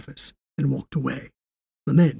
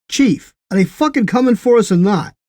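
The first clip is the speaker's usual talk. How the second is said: loud, high furious demand; angry demand; 8 semitones higher, 8 dB louder than usual. A narrator's reading. Will pointing at Paxton, demanding answers angrily. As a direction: pull out all the stops, demanding. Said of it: "with all the stops pulled, demanded".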